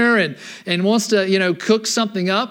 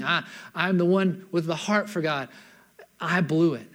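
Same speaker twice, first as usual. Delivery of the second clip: remorseful confession; 3 semitones lower, 4 dB quieter than usual. Acted. David confessing his sin.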